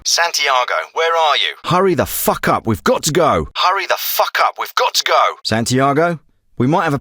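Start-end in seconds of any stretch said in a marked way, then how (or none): 1.6-5.4 high, pressing order to hurry; urgent, exasperated. Acted. Hurrying a comrade who must leave, urgent. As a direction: push them hard to get moving.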